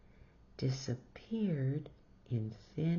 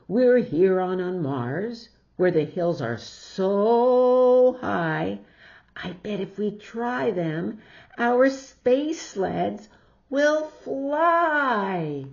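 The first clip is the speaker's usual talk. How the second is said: eager pitch; 4 semitones higher, 10 dB louder than usual. Acted. Peter pitches sled idea eagerly.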